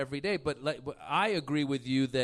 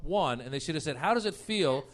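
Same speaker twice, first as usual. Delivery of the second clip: mock interviewer; 6 dB louder than usual. Mock questioning of Herman Cain.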